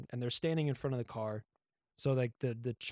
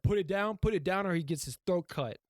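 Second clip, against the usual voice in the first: raised, higher-pitched imitated command; mock threat; 6 semitones higher, 4 dB louder than usual. Man with a knife threatens the inspector's crew, mock menace. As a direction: act out an urgent threat, louder.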